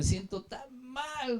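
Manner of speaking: a retold, half-crying "so bad", slow; near tears. Young convert confessing a lie to the apostle, near tears. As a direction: let the young man's guilt crack the voice a little. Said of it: "Y casi llorando me habló".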